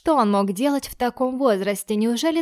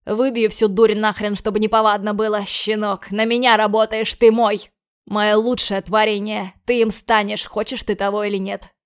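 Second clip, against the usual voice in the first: loud threatening rant; angry shouting; 4 dB louder than usual. Acted. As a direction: yell threats at the boy. Lorenzo threatening boy.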